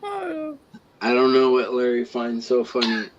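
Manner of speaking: slow, numb-tongued speech; numb tongue. Real, not acted. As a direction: talk round a frozen numb tongue. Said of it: "I sound like I'm talking funny 'cause my tongue's numb".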